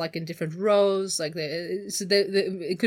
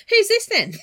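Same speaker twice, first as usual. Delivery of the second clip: much higher, laughing Australian question; hammed-up Aussie giggle; cheeky Australian through laughter; mock Australian; 13 semitones higher, 7 dB louder than usual. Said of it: "they've suddenly both become Australian".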